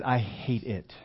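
"hate" drawn out with emphasis; stress on hate. Retold or imitated. Runner admitting to the preacher his dislike of running, stressing "hate". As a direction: lean hard on the word "hate". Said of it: "emphasis on hate".

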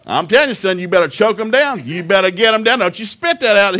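dad forcing son to choke down cereal; stern dad orders. Retold or imitated. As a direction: lay down the law to the son.

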